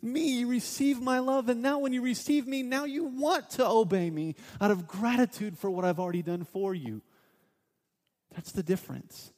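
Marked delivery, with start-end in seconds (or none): 0.0-7.0 voice of God. Acted. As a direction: speak as God, gently correcting. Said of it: "And God says".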